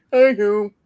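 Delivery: high, loud, teasing hey you; playful hey. Acted. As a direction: sing out a cheeky greeting. Playful loud greeting after laugh.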